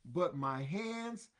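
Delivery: slow, emphatic, excited plea; Peter in his excitement. Acted. Peter excitedly begging Jesus, slow and emphatic. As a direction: urge it out in excitement. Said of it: "in his exciteness".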